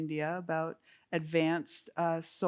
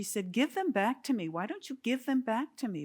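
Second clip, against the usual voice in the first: mock yelling at the ocean; 5 semitones higher than usual. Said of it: "she started yelling at the ocean".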